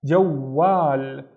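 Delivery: JAWWAL with a held w and long final a; doubled consonant demo. Shown as a demonstration. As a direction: say "jawwal" as jow-waal. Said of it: "have to pronounce this waw twice".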